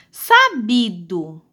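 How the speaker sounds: slow, drawn-out syllables; sílabas separadas. Shown as a demonstration. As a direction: sound out Sabido as SA-BI-DO, slowly. Teacher sounds out word by syllables. (leitura silabada e lenta)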